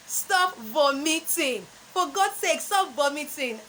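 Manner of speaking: vomiting with a long o, voh-mi-ting; exasperated stop vomiting with a long o; common mispronunciation. Shown as a demonstration. Coach acting out a frustrated parent saying vomiting wrongly. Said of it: "that's not the correct pronunciation".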